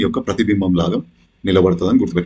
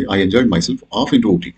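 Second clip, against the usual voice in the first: slow example reading; much slower than usual. Shown as a demonstration. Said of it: "option four చూడండి".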